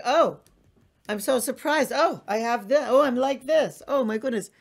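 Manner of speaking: high, loud gasping wonder at herself; surprised delight. Retold or imitated. A woman discovering her own aliveness, surprised and delighted. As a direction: bubble over with surprised joy.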